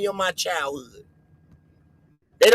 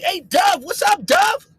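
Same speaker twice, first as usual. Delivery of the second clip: higher, a mild mock call "Hey, Dove"; white friends calling; 7 semitones higher, slower than usual. White friends greeting the vlogger. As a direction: call out like an excited buddy. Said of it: "They be like".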